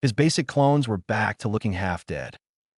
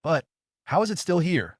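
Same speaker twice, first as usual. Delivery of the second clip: demanding; 7 semitones higher than usual. A narrator's reading. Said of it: "the boy demanded".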